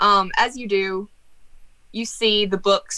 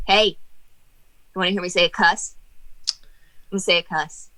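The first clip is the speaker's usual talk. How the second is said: lightly voiced impish jester; jester ghost. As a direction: tease like a naughty ghost. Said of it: "see the jester poke his head down again and go".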